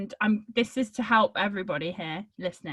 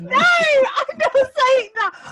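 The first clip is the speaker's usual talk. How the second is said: squealed protest; 9 dB louder than usual. Real, not acted. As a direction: shriek your refusal at the cheeky joke. Refuses coach's joke, squealing.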